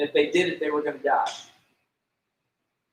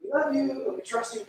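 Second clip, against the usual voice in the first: high, sugary put-on politeness; mock the polite fake-fine prayer; fake cheerful prayer; 7 semitones higher than usual. Believer faking contentment to God, high and sugary. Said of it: "It's really silly to go to God".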